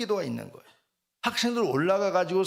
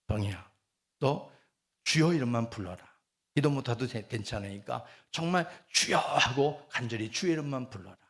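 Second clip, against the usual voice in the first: softer, lower quoted counsel; gentle instruction; 6 semitones lower, 3 dB quieter than usual. Retold or imitated. Evangelist instructing a new believer at prayer, quietly. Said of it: "저에게 주문하는 게 있어요".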